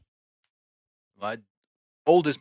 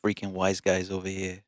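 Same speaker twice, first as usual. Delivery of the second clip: put-on softer Italian-American wise-guy accent; 2 semitones lower, 5 dB quieter than usual. Trying out next episode's voice, light Italian accent. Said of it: "I think we're gonna be Italian".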